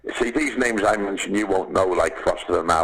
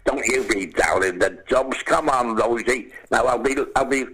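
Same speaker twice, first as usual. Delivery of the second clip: bright, coaxing pep talk, a bit higher; cheery get-well message; 4 semitones higher than usual. Pretend. Star cheering up a fan's sick mum on the phone, hearty encouragement. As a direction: gee up a poorly fan over the phone.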